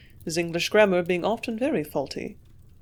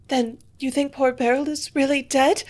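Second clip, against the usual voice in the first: gasped; 7 semitones higher, 4 dB louder than usual. A narrator's reading. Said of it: "her cousin gasped".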